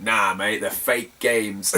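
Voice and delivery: low, drawn-out brush-off; dismissive retort. Retold or imitated. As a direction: wave the seller away in a low voice. Calm refusal against seller's protest.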